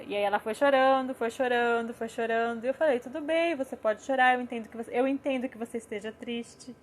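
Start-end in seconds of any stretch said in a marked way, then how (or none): 3.0-6.7 welcoming, accepting. Retold or imitated. Mother comforting her daughter leaving the playground, welcoming reassurance. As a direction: soothe a crying child with plain understanding. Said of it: "a gente vai falar no tom de acolhimento".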